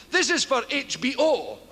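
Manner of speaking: grand, self-assured announcement; mock great confidence. Shown as a demonstration. Comedian mocking his own aplomb, mock-confident H B O. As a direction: say H B O as if you knew all about it. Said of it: "I say this with great aplomb".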